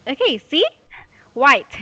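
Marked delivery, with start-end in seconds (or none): 1.3-1.8 "White" said firmly with a clear final t; a louder, clearly finished "White"; modelled pronunciation. Shown as a demonstration. Teacher confirming student's word, "White" modelled loud and clear. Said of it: "That's the exact pronunciation".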